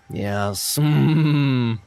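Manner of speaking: lightly voiced posh wine snob, slow and savoring; snooty connoisseur impression. Streamer mocking himself as a mild snooty connoisseur. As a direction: play the refined connoisseur sniffing his fine wine. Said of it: "That was my impression".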